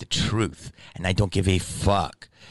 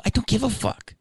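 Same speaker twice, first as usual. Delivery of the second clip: high-pitched dismissal; retold outburst, voice way up; exasperated retort; 13 semitones higher than usual. Brushing off the mother's excuse, exasperated.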